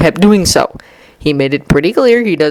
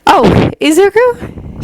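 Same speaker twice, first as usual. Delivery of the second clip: carefully flat; 14 semitones higher, slower than usual. A narrator's reading. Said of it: "her voice carefully flat".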